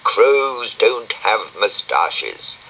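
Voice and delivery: indignant. Acted. Dougal angry, slow.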